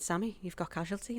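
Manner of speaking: normal talking voice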